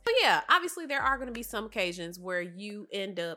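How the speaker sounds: congested, nasal tone; talking through a stuffy nose. Real, not acted. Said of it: "I'm getting nasally again".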